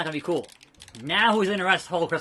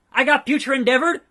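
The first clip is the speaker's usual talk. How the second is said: higher, louder incredulous question; shocked disbelief; 6 semitones higher, 5 dB louder, faster than usual. Acted. Wrestler reacting to his firing, shocked. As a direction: question it in stunned protest. Acting shocked at being fired.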